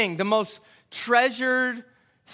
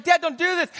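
mild retold panic, higher; raised-pitch imitation of a worried boy; starting to panic; 5 semitones higher, 3 dB louder than usual. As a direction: plead as you begin to freak out. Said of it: "he starts to freak out a little bit".

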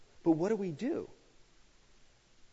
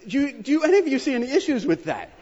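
laughing; 12 semitones higher, 9 dB louder than usual. Real, not acted. Laughing at son's answer.

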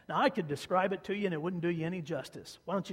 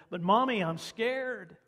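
put-on higher, louder scared little boy calling out; child calling out scared; 6 semitones higher, 6 dB louder, slower than usual. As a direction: call out from the next room like a frightened small boy. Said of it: "that voice yelled out again".

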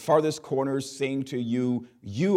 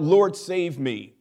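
Peter's cry; 6 semitones higher, 5 dB louder, slower than usual. Acted. Peter sinking cries out.

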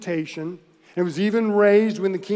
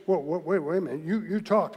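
dawning surprise; 4 dB quieter than usual. Pretend. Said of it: "he's ready to say".

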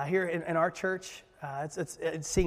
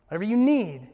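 rising to a louder emphasis; louder repeat; 2 semitones higher, 4 dB louder than usual. Shown as a demonstration. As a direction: press the second one harder.

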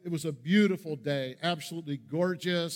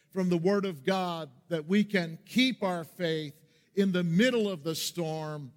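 preaching. Acted. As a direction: lay out the sermon theme, then lift with conviction. Pastor opens the sermon theme.

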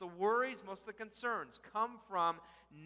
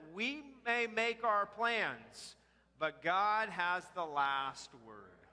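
slow reading aloud; slower than usual. Shown as a demonstration. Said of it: "Would you read this with me?".

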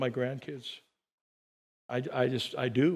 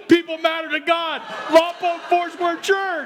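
incredulous reading out; 6 semitones higher, 4 dB louder than usual. Retold or imitated. Pastor reads the guilty driver's church frame, mock outrage. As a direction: spell out each word in outrage. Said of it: "what his license frame said".

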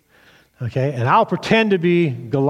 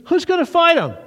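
giant's challenge; 13 semitones higher than usual. Retold or imitated. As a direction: call out across the valley for a fighter. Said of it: "He goes".

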